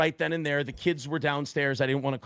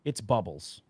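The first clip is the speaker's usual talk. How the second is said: anxious inner voice; 7 semitones lower, 7 dB quieter than usual. Retold or imitated. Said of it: "in my head, I'm just going".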